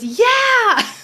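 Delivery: very high, loud and bright; healer's yeah. Retold or imitated. The healer confirming her father, high and gleeful. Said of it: "And so she goes".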